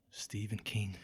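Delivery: deep ominous whisper-like intro; spooky low voice. Pretend. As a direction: announce it like a horror trailer. Spooky name drop.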